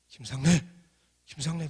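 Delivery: loud urgent call of a name. Retold or imitated. Professor running in calling the student, loud. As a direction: shout for him across the hall.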